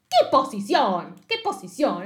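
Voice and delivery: mock the word back; scoffing. Girlfriend scoffing at the apology, mock contempt.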